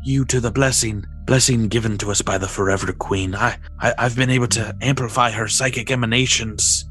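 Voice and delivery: put-on old sage voice. NPC Zelanan speaking.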